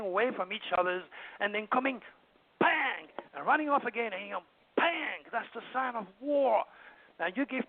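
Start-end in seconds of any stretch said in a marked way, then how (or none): 2.6-3.1 drawn-out falling "bang"; imitated crash. Mimics rams butting heads. 4.8-5.2 drawn-out falling "bang"; imitated crash. Mimics rams butting heads.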